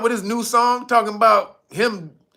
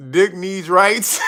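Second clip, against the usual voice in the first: laughing shout; 3 dB louder, slower than usual. Pretend. Reading chat joke, loud.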